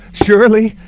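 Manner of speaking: loud, high exclaim; startled exclamation. Acted. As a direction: cry out at the tapping. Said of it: "said I".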